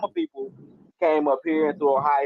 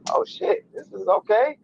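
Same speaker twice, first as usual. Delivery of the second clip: surprised reaction; 6 semitones higher, slower than usual. Retold or imitated. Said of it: "I'm like".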